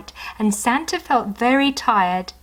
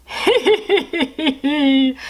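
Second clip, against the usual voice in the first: much higher tittering hee hee; giggle; 7 semitones higher, 4 dB louder than usual. Acted. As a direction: giggle with delight. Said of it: "laughed Santa".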